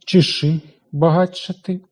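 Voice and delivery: багатшати at an ordinary speaking pace, with ч and ш heard apart; normal tempo. Shown as a demonstration. Teacher showing the class the normal-tempo pronunciation. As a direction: say багатшати at everyday speed. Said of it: "у звичайному темпі".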